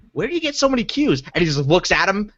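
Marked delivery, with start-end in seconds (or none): 0.1-1.2 higher-pitched mock questioning; imitated commentator. Commentator challenging Shaq over Scrabble tiles, mock bafflement. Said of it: "one of the commentators was like".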